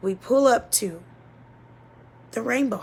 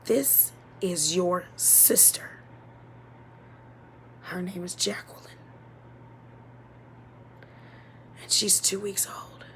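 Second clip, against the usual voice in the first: softer, slower hushed announcement; 7 dB quieter than usual. Retold or imitated. Social worker at the car gently introducing the baby sister, quiet and slow. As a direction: break the news gently and slowly. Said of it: "and they say".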